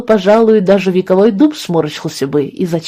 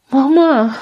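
babbled; 6 semitones higher than usual. A narrator's reading. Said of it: "пролепетала Каролина".

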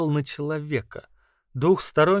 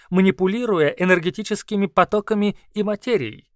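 higher, louder squeaky lecturing beast; squeaky creature voice; 4 semitones higher, 5 dB louder than usual. Acted. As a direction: explain like a squeaky scholar. Kauru explains.

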